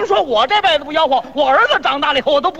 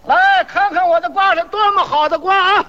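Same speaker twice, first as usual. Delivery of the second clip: lightly hawked market pitch, a little raised; melon vendor's cry; 3 semitones higher than usual. Pretend. One hawker advertising his melons to passers-by, mock vendor's cry. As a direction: call out like a mock street hawker. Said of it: "你听着吆喝呀".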